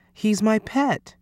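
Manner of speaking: put-on high, slow child's voice; explaining boy. A narrator's reading. Lewis explaining Alphonse to the coach, high slow boyish voice.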